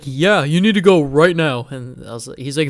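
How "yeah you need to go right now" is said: slow, louder imitation of the teacher ordering him out; stern order. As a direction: lay down the law, slow and firm.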